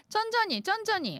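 high, mock calming; playful mock soothing. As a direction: coo it in a high mock-gentle voice.

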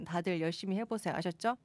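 normal talking voice

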